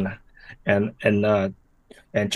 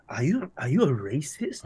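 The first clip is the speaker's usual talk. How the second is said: mocking accusation; 4 semitones higher, 4 dB quieter than usual. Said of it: "They say".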